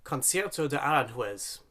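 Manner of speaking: Concierto de Aranjuez in a light, self-conscious Spanish accent; a hint of Spanish accent on the title; self-mocking Spanish accent. Shown as a demonstration. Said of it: "my appalling Spanish accent here".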